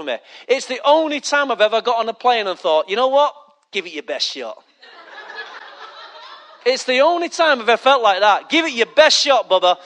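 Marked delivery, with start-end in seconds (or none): 3.7-4.6 low, soft, offhand challenge; quiet dare. Retold or imitated. Boarding the plane unafraid, low quiet dare. 8.5-9.8 full-voiced, open challenge; bold dare. Daring the plane to fall, bold full voice.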